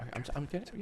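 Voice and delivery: hushed whisper. Real, not acted. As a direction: keep it to a whisper. Whispering off mic.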